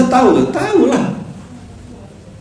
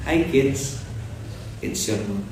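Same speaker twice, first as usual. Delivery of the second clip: soft TikTok parent; 9 dB quieter, slower than usual. Retold or imitated. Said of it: "bikin video gitu ya".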